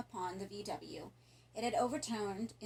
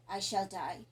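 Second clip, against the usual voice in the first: determined; 4 dB louder than usual. Acted. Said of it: "the voice full of determination".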